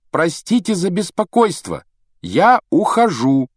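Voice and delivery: high, loud call, stretched at the end. A narrator's reading. Harry calls to the deaf-seeming wizard, raising his voice. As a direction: call out to someone hard of hearing. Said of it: "Гарри повысил голос".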